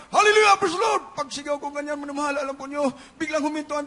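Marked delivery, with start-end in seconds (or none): 0.1-1.1 sudden loud high cry of praise; retold shout. Preacher reliving his cry in the truck crash, loud and high. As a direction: throw it out at full voice, high and loud. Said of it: "Bigla akong sumigaw".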